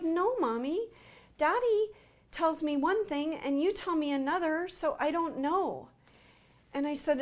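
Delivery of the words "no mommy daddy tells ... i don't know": put-on little girl voice. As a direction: speak like a confused little daughter. Daughter voiced in retold story.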